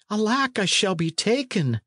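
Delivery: very high, acted wail of alarm; panicked high pitch, volume held back; fearful cry. A narrator's reading. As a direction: cry out as a hunted fugitive. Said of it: "cried the fugitive".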